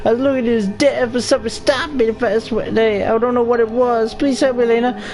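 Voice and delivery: ghostly pleading woman. Acted. Ghost woman begging Elena to find the murderer, high mournful plea. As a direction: plead like a restless spirit who can't move on.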